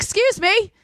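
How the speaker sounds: high-pitched mock Australian; imitating a man in pretend Australian; Australian accent. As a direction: accidentally slip into an Aussie accent. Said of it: "now he made me do Australian".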